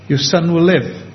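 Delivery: straight, plain statement of "live"; matter of fact. Retold or imitated. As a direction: say it simply, as a settled fact. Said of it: "his tone of voice is quite straight and quite matter of fact".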